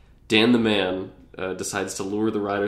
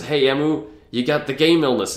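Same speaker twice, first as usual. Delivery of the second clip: taunting villain; 5 semitones higher, 7 dB louder than usual. Retold or imitated. Villain Dan taunting Emu.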